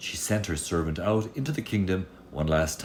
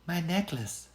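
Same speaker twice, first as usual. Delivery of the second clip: put-on much higher, softer girl's voice; a small frightened girl's voice; tearful girl; 13 semitones higher, 4 dB quieter than usual. Girl in the locked room tells the little man, high and tearful. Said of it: "said the girl".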